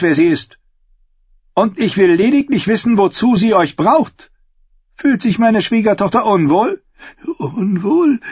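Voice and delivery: sharp, pointed questioning; queen correcting the flustered maester; cold queen. Acted. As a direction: cut him off with authority.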